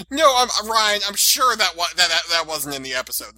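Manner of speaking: mimicking a friend who insists; quoting Jen. Teasing a friend by imitating her insistent correction. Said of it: "and she's like".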